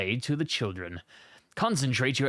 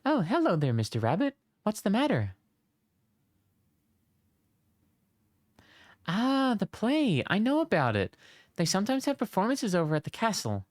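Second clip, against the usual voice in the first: lightly voiced villager; 3 semitones higher than usual. Voicing NPC dialogue.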